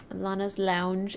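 slow, spelled-out name; slow and deliberate. Shown as a demonstration. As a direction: say the name slowly and clearly.

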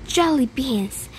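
muffled, hand over mouth. Acted. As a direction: speak through a covered mouth. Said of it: "said a muffled voice".

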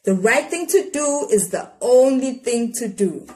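a hint of a firm, wise mother; lightly voiced mother stating a rule; mother's voice in her head, lightly firm; Ma's voice. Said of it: "Ma's voice said inside her head".

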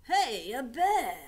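loud excited call of a bear; tourist calling out. Acted. Tourist spotting the koala, calling out excitedly. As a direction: shout it like a delighted tourist.

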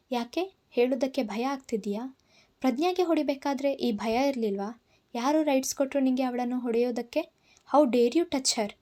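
mild angry rant that swells at the end; angry outburst. Acted. Man confronting Tapasya over hitting Prajna, mild rising anger. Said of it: "ನನ್ನ ಅಬ್ಬರಕ್ಕೆ".

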